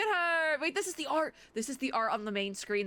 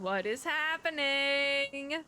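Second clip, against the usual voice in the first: confused; 5 semitones higher, 3 dB louder, much slower than usual. Real, not acted. Confused at game.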